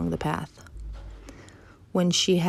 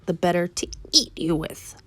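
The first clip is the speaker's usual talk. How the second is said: punched, dropped-disguise wolf voice; menacing wolf. Acted. Wolf turns on the girl, mildly menacing punch. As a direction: pounce on the key word. Wolf reveals himself, pounces.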